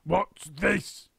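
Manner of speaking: put-on startled old man gasp. A narrator's reading. Mister Twit shocked entering living room. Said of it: "gasped Mister Twit".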